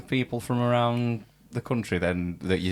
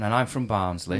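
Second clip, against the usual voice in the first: put-on lightly broad Barnsley accent on "Barnsley". Musician telling bands where he's from, lightly broad Barnsley accent. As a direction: says "Barnsley" as /panzli/ with a flat northern a. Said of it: "I just say it like that".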